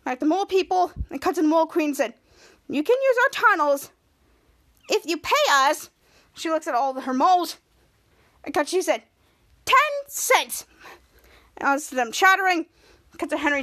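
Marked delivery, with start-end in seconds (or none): 2.7-5.9 lightly raised, squeaky mole queen; a small creature queen making her demand. Acted. Mole queen bargains with the heroes, lightly squeaky voice. 9.6-10.7 high squeaky creature queen; mole queen voice. Acted. Mole queen names her price to the heroes, high squeaky voice.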